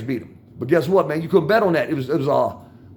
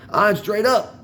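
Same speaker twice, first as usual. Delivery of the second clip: laughing; 4 semitones higher, slower than usual. Real, not acted. Laughing, confirms.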